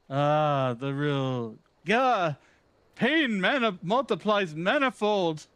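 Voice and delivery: pompous gentleman hero, brisk and theatrical; Hildebrand. Acted. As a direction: read it like a vain, grandiose gentleman. Voicing Hildebrand's quest lines.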